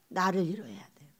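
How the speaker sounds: confiding whispered aside. Acted. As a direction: whisper it like a secret to the congregation.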